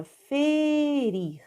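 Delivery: "ferir" with a long held fe, then rir; slow demonstrative reading of "ferir"; syllable by syllable. Shown as a demonstration. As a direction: stretch the first syllable of "ferir". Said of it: "vamos ler passo a passo".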